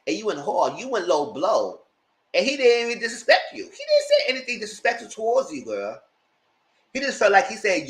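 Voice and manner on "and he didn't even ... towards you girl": laughing indignation. Real, not acted.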